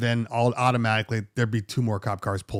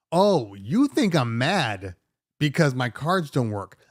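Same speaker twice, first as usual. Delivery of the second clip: sarcastic, slow; slower than usual. Retold or imitated. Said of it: "I'm looking at him like".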